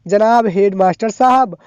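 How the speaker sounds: "जनाब हेडमास्टर साहब" drawn out slowly, each word separate; slow dictation from the page; dictating slowly. Shown as a demonstration. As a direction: read the written salutation slowly for copying. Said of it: "तो यहाँ पे लिखा हुआ".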